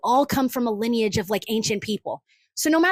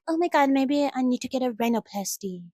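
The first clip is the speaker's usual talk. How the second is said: mock commenter; 4 dB quieter than usual. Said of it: "people in the comments will be like".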